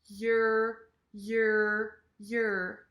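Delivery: "Yer" as a y straight into curled r; reduced yer. Shown as a demonstration. Teacher drills y plus R, reduced "yer". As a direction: say each "yer" short, y first. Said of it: "start with a y".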